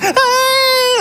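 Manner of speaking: put-on sudden high shout at a baby; startling yell. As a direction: bark a sharp startle. Mimics yelling at a baby. (bentakan keras yang mengagetkan)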